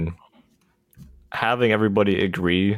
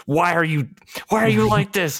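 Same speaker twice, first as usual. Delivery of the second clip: high, far-off mock whine of disbelief; exasperated quote; 9 semitones higher than usual. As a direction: squeak out a teasing why are you like this. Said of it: "I'm like".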